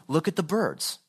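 offhand, unurgent remark; casual pointing out. Acted. Preacher showing what Jesus was not saying, offhand. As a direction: say it as a mere observation. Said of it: "he's not saying".

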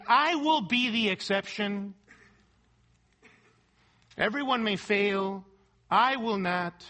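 firm stress on "I will" in each claim; emphatic. Acted. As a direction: declare "I will not" with force, as a boast of being the exception.

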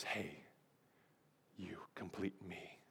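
barely-there whisper with a long pause; hushed whisper. Acted. Preacher playing Jerry Maguire to his love interest, hushed whisper. Acting out tearful movie love scene.

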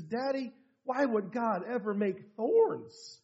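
soft, slow retold child's question; tearful little boy. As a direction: ask Daddy quietly, mildly tearful. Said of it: "he had big old tears".

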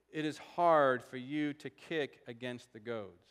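slow, weighty scripture quote; measured voice from heaven, every word given room; solemn quotation. Acted. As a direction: draw the saying out slowly and deliberately. Solemn quote of the strange saying.

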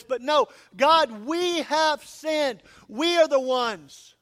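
loud, high impassioned preaching, slowing on the prayer lines; preaching at full force. Acted. Pastor urging his congregation, preaching at full force. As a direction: pour it out, building to a cry.

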